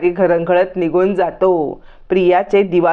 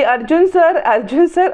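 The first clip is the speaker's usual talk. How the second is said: shouting a name; 8 semitones higher than usual. A narrator's reading. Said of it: "Sayali ओरडायला जाते".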